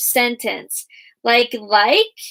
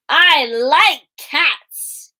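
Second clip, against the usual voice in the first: "I like cats" stretched out and a bit louder; excited; 2 semitones higher, 4 dB louder, much slower than usual. Shown as a demonstration. Teacher showing pupils an excited reading. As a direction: say it like you love cats. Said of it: "What if you were really excited".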